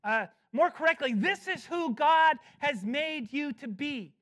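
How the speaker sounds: emphatic Paul voice; emphatic paraphrase. Acted. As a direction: speak Paul's charge boldly. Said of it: "He's saying".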